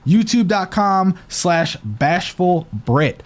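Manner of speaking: talking with a retainer in; lisping through a retainer. Real, not acted. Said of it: "I sound like I have a lisp".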